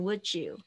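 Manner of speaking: "would you" merged into "wu-joo"; linked would-you. Shown as a demonstration. Teacher shows what "would you" becomes, linked pronunciation. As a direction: run "would you" together with a j sound. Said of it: "变成would you".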